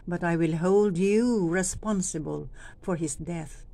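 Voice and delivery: you leaned on in hold you responsible; stress on you. Shown as a demonstration. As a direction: lean on you as you look at the people. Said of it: "Dun po sa mga nga you".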